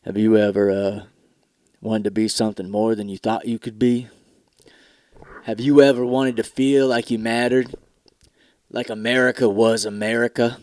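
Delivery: husky ad voice. Retold or imitated. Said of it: "the husky voice".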